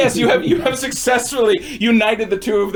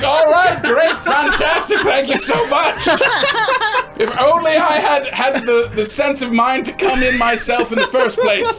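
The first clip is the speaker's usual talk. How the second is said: character voice; 7 semitones higher, 3 dB louder than usual. Acted. NPC speaking, laughing, in character.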